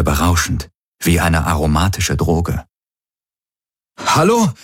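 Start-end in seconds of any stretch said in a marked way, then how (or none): 4.0-4.5 very high, drawn-out holler; calling out. A narrator's reading. Garland hails his people across the jungle, calling out. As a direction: call into the distance for anyone. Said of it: "rief er, die Hände als Trichter".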